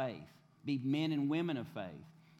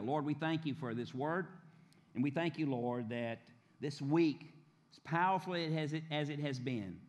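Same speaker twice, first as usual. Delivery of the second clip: earnest prayer voice, rising in appeal; pastor's prayer. Acted. Pastor praying over the congregation for the new year, fervent. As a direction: pray it over the people, fervent.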